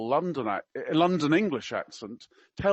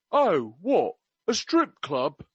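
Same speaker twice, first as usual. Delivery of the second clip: louder start, a hint of mock Cockney; attempted Cockney; 4 dB louder, slower than usual. Quoting the prince to a young woman, in attempted Cockney. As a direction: lightly put on a Cockney accent. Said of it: "I can't do Cockney. I will try my best".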